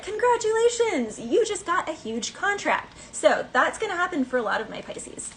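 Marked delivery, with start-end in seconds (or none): 0.0-3.0 high, slow congratulatory announcement; email announcement. Pretend. Email announcing a contract, high bright announcement. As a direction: read it like a glowing award. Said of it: "and it's just like".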